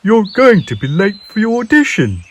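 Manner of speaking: calling out. A narrator's reading. Owl calling out to wake sleepy Peep. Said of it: "called Owl".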